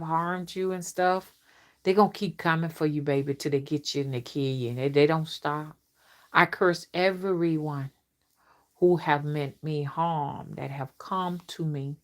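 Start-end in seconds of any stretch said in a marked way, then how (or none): 6.3-12.0 curse incantation. Acted.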